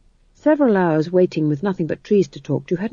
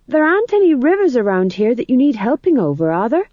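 higher, urgent pleading question; desperate; 7 semitones higher, 4 dB louder than usual. A narrator's reading. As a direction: prompt her desperately to take the hint. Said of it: "said Tom John desperately".

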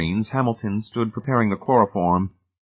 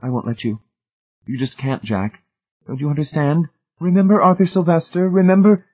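urgent, rising plea; 8 semitones higher, 3 dB louder than usual. A narrator's reading. Marcia blocking Jack's way, urgent plea rising to loud. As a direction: plead faster and louder as he won't listen. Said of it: "Marcia said swiftly".

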